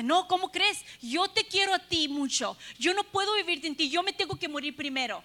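a hint of a doting old husband protesting; mild old man insisting he dies first. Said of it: "Y el viejito le dice".

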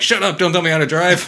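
laughing through a loud, high snap; hammed-up driver telling him off; retold driver shouting down his co-driver, half laughing; mock angry driver. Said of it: "the driver's like".

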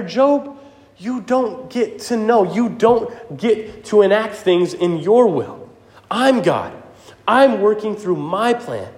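high, firm rebuke easing into reassurance, slowing at the end; God rebuking then reassuring. Acted. God tells Job to trust him, firm then gentle. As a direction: scold then comfort like a father. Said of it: "He's saying".

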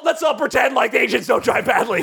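high mocking whine, half laughing; sarcastic mocking voice. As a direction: sneer it out in a high put-on voice.

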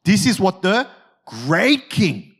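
slow, condescending pomp with weight on "great king"; haughty, drawn-out title. Acted. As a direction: draw out "great king" to talk down to them. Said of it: "condescending language".

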